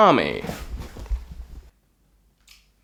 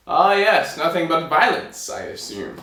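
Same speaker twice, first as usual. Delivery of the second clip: knowing king; 3 semitones higher than usual. Acted. King assuming the tailor kills giants, knowing kingly voice. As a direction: savour it like a king who knows better.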